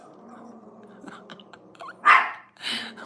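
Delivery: breathy, whispered laugh. Real, not acted. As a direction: giggle to yourself with little voice. Laughing at her dog.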